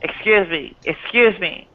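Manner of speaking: coughing between words; throat catching with a cough; smoker's rasp. Real, not acted. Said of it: "Have you got smoker's cough?".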